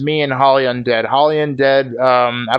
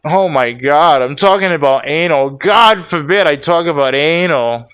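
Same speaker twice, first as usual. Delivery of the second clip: sarcastic mockery; 3 dB louder than usual. Mocking the co-host's complaint.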